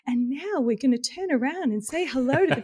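high, bright mock announcement; cheery worship leader. Imitating the worship leader greeting the congregation. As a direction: chirp it like a cheery church leader. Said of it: "they go".

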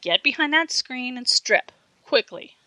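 slow, loud bossy order; commanding. A narrator's reading. Big girl orders the boy behind the screen, bossy command. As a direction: bark the order like a bully. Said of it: "she commanded".

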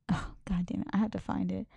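whispered cursing to herself while searching; under-breath grumble; frustrated whisper. Real, not acted. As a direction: hush it, annoyed, as you dig for something. Muttering while hunting for a post.

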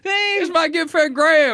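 put-on American accent. Testing the American way of saying Graham, lightly accented. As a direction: play an American introducing a friend. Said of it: "with an American accent".

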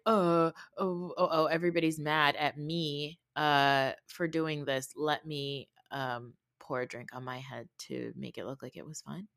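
a sarcastic, dropping whine; mocking Jen. Mocking Jen's fake self-pity to the group, a sinking whine. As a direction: mimic her fake self-pity, fading out. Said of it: "Jen is like".

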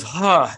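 acted, heavy sighed "huh"; heaved sigh. Game master voices a man giving up, heaving a sigh. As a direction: let out a big stagey sigh. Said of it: "heaves a sigh and goes".

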